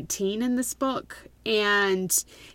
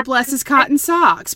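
mock English phrase; 4 semitones higher, 8 dB louder than usual. Shown as a demonstration. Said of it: "Then you could say".

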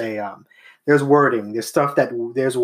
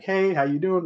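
mimicking customer; 5 semitones higher, 3 dB quieter than usual. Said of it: "regular Caucasian person".

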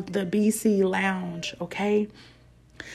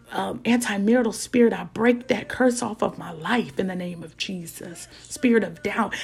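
bold rebuking prayer; declaring prayer. Acted. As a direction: command the spirits away. Declaring against spirits in prayer.

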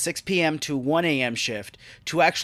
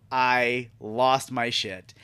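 slow emphatic; 3 semitones lower, much slower than usual. Real, not acted.

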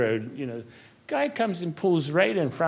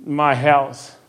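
heartfelt prayer; 4 dB louder than usual. Acted. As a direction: pray it aloud as a personal vow. Recites his prayer again.

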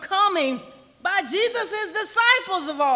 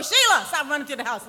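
put-on loud, quick call to a child; mock scolding mother; 5 dB louder, faster than usual. Mother to a child running indoors, mock scolding. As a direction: imitate a mother hollering through the house.

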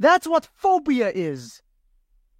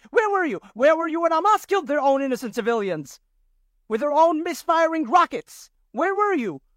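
higher, pressing indignation; indignant; 4 semitones higher than usual. Real, not acted. Confronting critics about civilians, raised and indignant. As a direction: hammer the question home.

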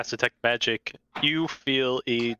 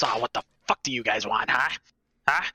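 put-on grumpy old man.

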